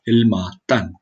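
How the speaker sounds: Hilmartin with a light Welsh lilt; a touch of Welsh accent on Hilmartin. Real, not acted. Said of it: "I just did a Welsh accent both times".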